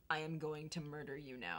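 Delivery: low, hushed threat; mock quiet menace. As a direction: deliver a softly spoken threat, low. Acting friend's turn to menace.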